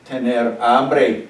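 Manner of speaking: Tener hambre spoken slowly, stressing hambre; drawn-out teacher modelling; slow model. Shown as a demonstration. Teacher repeats the answer slowly for students. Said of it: "¿Cómo se dice to be hungry".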